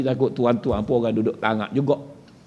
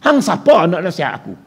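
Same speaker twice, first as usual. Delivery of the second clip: Kedah dialect; 5 semitones higher, 5 dB louder than usual. Retold or imitated. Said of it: "Kalau orang Kedah".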